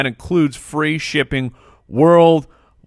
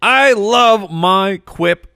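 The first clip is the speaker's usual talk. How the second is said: gushing praise; 6 semitones higher, 3 dB louder, much slower than usual. Acted. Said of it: "sing the praises of my Quip".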